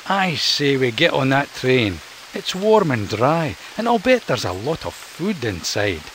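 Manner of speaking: a light smiling raccoon voice; smiling Mac. Acted. Mac to Ian, smiling as he suggests the train. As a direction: pitch the train idea with a grin. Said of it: "he said, smiling".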